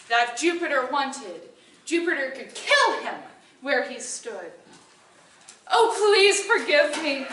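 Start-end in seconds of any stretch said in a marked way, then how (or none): 5.7-7.3 high, loud, frantic begging; pleading cry. Acted. Woodcutter begging Jupiter to spare him, frantic plea. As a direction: beg for your life, voice up high. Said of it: "he cried".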